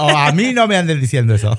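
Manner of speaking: a playful mock telling-off; mock indignant retort. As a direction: imitate someone snapping back at the gossipers. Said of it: "Y volvió, y".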